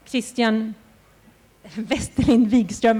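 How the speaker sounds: name said with a Swedish accent. Shown as a demonstration. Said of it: "I was going to do that with the perfect accent because I'm actually also Swedish".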